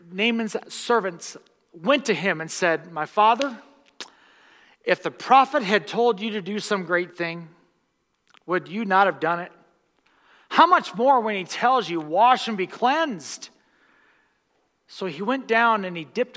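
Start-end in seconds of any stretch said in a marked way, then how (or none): 2.9-13.5 scripture read. Real, not acted. Reading scripture with force.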